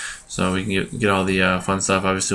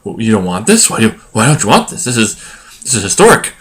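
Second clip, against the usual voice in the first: incredulous student; 2 semitones higher, 4 dB louder than usual. Retold or imitated. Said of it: "And they looked at me like".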